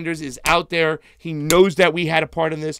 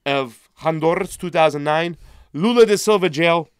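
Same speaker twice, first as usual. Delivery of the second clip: yelling; 4 dB louder than usual. Real, not acted. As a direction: call out the list, raised voice. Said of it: "sorry for yelling so loud".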